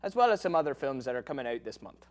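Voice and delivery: put-on Irish lilt throughout; Irish accent. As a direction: speak it in an Irish brogue. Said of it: "why we're speaking in Irish accents".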